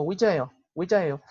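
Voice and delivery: Ouijaeo run together fast, the ye barely heard; quick Korean demo. Shown as a demonstration. Teacher models Ouijaeo for students, quick and fluid. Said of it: "cuando uno lo dice rápido".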